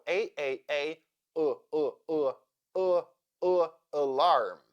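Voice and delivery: A repeated, then UH repeated, into alarm; schwa drill. Shown as a demonstration. Teacher drilling the unstressed first syllable of alarm, schwa drill. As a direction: drill A turning into a neutral UH before alarm. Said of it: "that is why A sounds uh".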